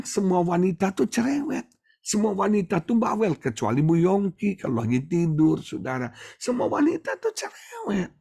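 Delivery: high, emphatic insisting; emphatic retort. Retold or imitated. Preacher telling brother-in-law all women nag, high and emphatic. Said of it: "Saya bilang".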